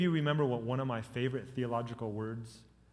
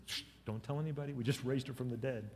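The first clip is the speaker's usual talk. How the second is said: hushed secret; 8 dB quieter than usual. Acted. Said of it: "when Jesus says".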